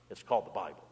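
hushed reveal; soft reveal. Shown as a demonstration. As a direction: drop the voice low on it. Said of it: "repeated line".

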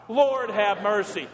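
slow, drawn-out liturgical plea; congregational plea. Shown as a demonstration. Preacher leading the church's cry, slow pleading. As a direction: lead the congregation slowly in prayer.

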